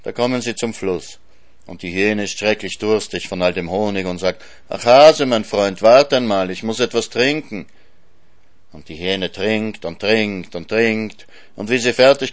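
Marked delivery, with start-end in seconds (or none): 4.7-7.7 loud, swelling cries to a friend; lightly acted needy hyena; pleading hyena. A narrator's reading. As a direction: beg the hare to wait. Thirsty hyena begs the hare.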